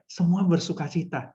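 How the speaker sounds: shy, joyless example; malu-malu. Shown as a demonstration. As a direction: say it bashfully, holding the joy back. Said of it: "Jangan malu-malu, gitu ya". (contoh malu-malu, kurang sukacita)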